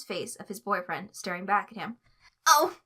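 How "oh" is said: startled high, loud little squeak. Acted. Tweek startled at the door by his boyfriend, high squeak. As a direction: yelp it in surprise. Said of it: "Tweek squeaked".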